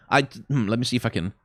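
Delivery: usual speaking voice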